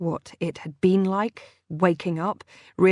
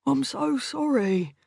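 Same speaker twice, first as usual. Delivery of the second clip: soft apology; 7 semitones higher than usual. Acted. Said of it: "kept repeating like a mantra".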